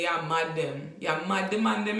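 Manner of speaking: Jamaican patois. Shown as a demonstration. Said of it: "When a guy in Jamaica say".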